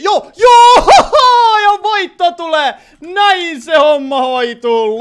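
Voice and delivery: very loud, high victory shout with laughter, easing off at the end; voitonriemu. Real, not acted. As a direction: shout it out slowly, stretching each word in triumph. Pelaaja juhlii voittoa huutaen. (riemukas, venytetty voitonhuuto)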